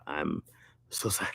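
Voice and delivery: soft mock-Asian apology; mock Asian accent. Streamer repeating the bit for laughs, mock Asian accent. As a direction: lightly put on an Asian accent, kept soft. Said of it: "in the Asian guy voice".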